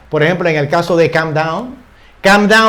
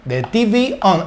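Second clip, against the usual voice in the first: very slow, each word laid out; slow teaching read; 3 semitones higher, much slower than usual. Shown as a demonstration. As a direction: read it slowly so students catch every word. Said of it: "Aquí digo". (lectura muy lenta, palabra por palabra)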